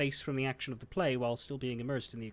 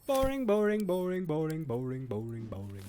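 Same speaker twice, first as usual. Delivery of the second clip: bored singsong, fading; 2 semitones higher than usual. Acted. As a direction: drone it out, losing interest. Mocking household prayer chant.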